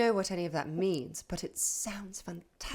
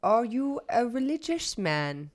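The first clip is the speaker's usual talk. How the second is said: a slow, drawn-out question, lightly voiced as Olaf; slow probing question in a near-plain voice; slow in-character question; 4 semitones higher, slower than usual. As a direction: stretch it out carefully, only slightly in character. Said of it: "How do you do a Danish accent?".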